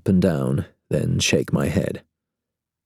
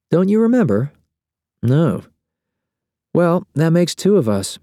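higher, puzzled waking voice; a just-woken young woman; sleepy woman voice; 11 semitones higher, 4 dB louder than usual. Acted. Ramona voiced.

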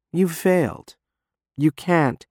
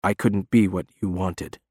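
broken; 5 semitones lower, 4 dB quieter than usual. Acted. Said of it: "he says brokenly".

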